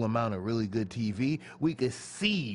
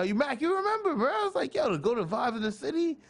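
animated; 11 semitones higher than usual. Retold or imitated. Animated retelling of begging.

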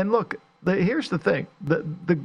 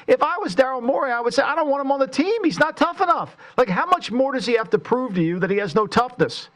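heated rant; 7 semitones higher than usual. Real, not acted.

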